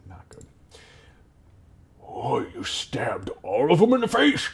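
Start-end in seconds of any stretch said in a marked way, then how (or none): 2.1-4.5 whispery goblin awe, rising; amazed goblin. Acted. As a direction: gasp the question in hushed disbelief. Goblin guard amazed by boast.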